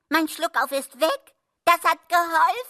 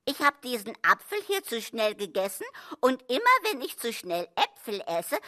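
normal talking voice

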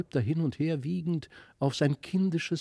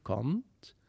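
soft call; 5 dB quieter than usual. A narrator's reading.

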